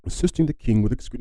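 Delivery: half-hearted British accent attempt. Shown as a demonstration. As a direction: try on a British accent, then cut off. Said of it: "say it in a British accent".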